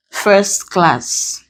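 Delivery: CLASS stressed in first class, with a fall; stress on second word. Shown as a demonstration. Teacher showing the compound exception, CLASS stressed in first class. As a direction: land the weight on CLASS. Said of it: "the first syllable describes the second".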